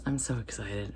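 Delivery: ordinary talk, nothing marked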